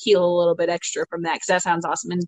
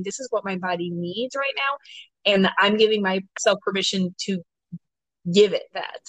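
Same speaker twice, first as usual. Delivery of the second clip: gentle self-permission. Retold or imitated. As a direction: let your body have what it needs, gently. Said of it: "that's your feminine energy saying".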